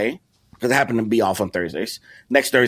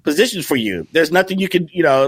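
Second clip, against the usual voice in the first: irritated; 5 semitones higher than usual. Retold or imitated. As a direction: play the fed-up manager, lightly. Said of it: "he's a little bit more irritated".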